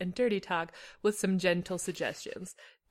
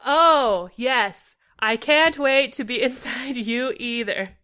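stiff, slow, overly loud line reading; awkward dialogue delivery; 2 semitones higher, 6 dB louder, much slower than usual. Acted. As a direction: read it like a nervous amateur actor. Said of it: "I was less natural about the dialogue".

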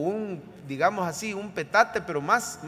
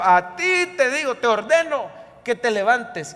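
firm order; 3 semitones higher than usual. Shown as a demonstration. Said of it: "Pero más es una orden".

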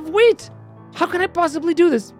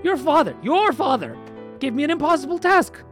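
much higher, pleading, near tears; a hammed-up hero close to sobbing; crying despair; 10 semitones higher than usual. Ivanushka pouring out his trouble to Vasilisa, much higher and tearful. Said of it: "why are you crying".

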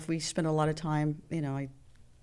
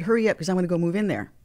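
excited; 5 dB louder, much faster than usual. Retold or imitated. Joking to a singer about moving.

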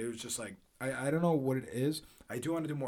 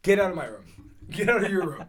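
shocked; 5 semitones higher, 5 dB louder than usual. Real, not acted. Shocked at friend's answer.

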